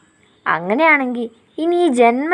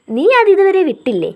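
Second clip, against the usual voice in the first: higher, louder amused question; fighting back a laugh; amused disbelief; 7 semitones higher, 5 dB louder than usual. Acted. Nandan teases her about the old hair remark, amused and higher.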